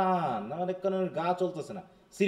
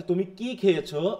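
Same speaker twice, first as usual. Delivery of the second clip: কি drawn out and punched; stress on কি. Shown as a demonstration. Teacher repeating the first question pattern, stress on কি. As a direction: make কি the key word of the question. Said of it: "কি এর উপরে".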